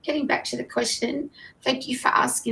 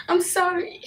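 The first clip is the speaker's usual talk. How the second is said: higher, giggling through the words; laughing apology; 6 semitones higher than usual. Real, not acted. Host laughing at her own repeated sorries.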